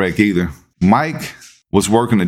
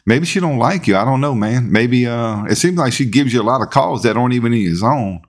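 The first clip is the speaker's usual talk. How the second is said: mock sympathy; 3 semitones higher than usual. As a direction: pretend to console while secretly needling him. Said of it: "we heckling him".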